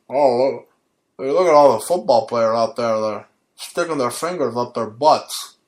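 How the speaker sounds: a lightly voiced old radio host; a hint of a gruff radio host, amused; Don Imus impression. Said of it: "how I imitate Don Imus".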